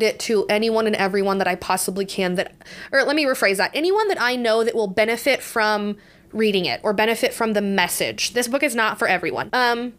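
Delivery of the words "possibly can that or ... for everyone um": stuffy, congested voice; blocked nose. Real, not acted. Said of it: "I'm also very congested".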